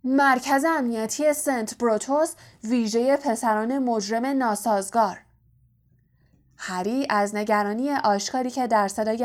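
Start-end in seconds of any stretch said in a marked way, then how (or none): 0.0-5.2 understated uncle's roar. Acted. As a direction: bellow the name half-heartedly. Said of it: "عمو ورنون نعره زد".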